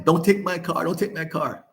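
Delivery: imitating a tearful plea, half-hearted; mock pleading, near tears. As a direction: beg for the car like she's about to cry, retold lightly. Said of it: "she ran almost crying".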